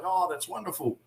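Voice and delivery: mock-gracious celebrity; imitated polite wrestler. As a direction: respond gently, with no ring bluster. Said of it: "None of this angry yelling and screaming".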